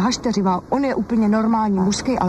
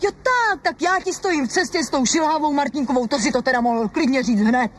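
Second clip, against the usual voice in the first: outraged; 6 semitones higher than usual. Acted. Wife outraged at accusation.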